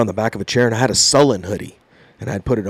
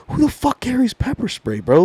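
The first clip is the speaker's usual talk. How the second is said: indignant disbelief; 9 semitones higher, 4 dB quieter than usual. Retold or imitated. Indignant after being pepper sprayed.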